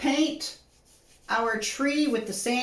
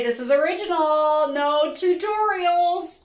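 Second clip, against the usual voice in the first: excited dread; 4 semitones higher than usual. Real, not acted. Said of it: "I'm so excited and nervous".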